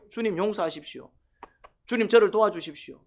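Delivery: acted plea to the Lord, rising in pitch; pleading prayer. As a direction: cry out for help as if praying. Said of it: "기도가 나와야 돼요".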